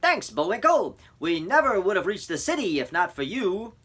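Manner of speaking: high, loud grateful conductor. Acted. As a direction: call out thanks warmly. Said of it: "The conductor called after him".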